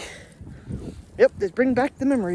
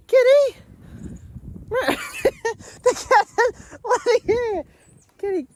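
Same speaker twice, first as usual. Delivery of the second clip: surprised call; 13 semitones higher, slower than usual. Real, not acted. Owner spotting the cat out in the snow, startled call. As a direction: blurt it out at the sudden sight.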